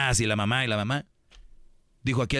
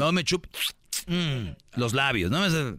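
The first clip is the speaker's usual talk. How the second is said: exasperated grandma scolding; 2 semitones higher, slower than usual. Retold or imitated. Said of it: "¿Qué te decían antes?".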